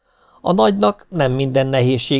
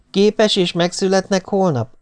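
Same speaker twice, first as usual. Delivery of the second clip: higher, eager hopeful asking; hopeful question; 8 semitones higher than usual. A narrator's reading. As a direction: ask it hoping for a yes. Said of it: "kérdezte reménykedve a középső". (reménykedő, magasabb hangú kérdés)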